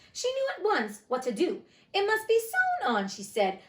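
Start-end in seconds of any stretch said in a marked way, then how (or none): 1.9-3.1 patronizing. A narrator's reading. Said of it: "just a little patronizingly".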